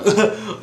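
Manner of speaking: high mock coughing laugh; imitated laugh-cough. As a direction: act out laughter turning into coughs. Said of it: "they start coughing".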